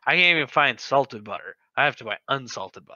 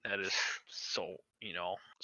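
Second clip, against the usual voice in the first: whispering; 5 semitones lower, 13 dB quieter than usual. Acted. Savoring fancy bourbon.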